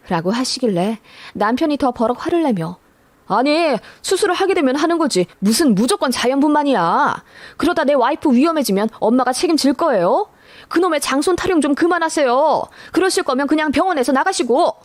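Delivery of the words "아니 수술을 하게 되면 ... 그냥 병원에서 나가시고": higher, raised angry yell at his mother; retold yell, pitched up and heated; husband yelling. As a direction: shout her down, fed up with the eldest-grandson talk. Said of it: "라고 소리를 질렀습니다".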